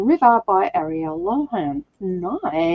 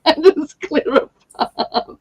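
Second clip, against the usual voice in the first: higher, slow Moses voice; 7 semitones higher, slower than usual. Pretend. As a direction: proclaim it like Moses. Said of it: "I'll be like Moses".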